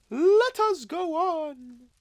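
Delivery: high, slow, swelling spirit promise. Acted. Ghost assuring Scrooge he will be upheld, high and loud. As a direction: lift it up like a ringing vow.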